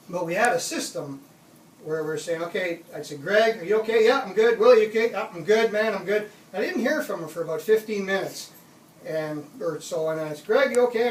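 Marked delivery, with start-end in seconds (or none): 3.2-6.3 louder, raised voice checking in; retold calling out. Retold calling back and forth check-in. 10.5-11.1 higher, louder check on a friend; retold calling out.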